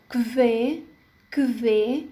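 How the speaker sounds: "كفي" with k run straight into v. Shown as a demonstration. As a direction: say "كفي" as German "kve". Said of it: "كو وتنطق كفي". ("كفي" كاف تليها v مباشرة)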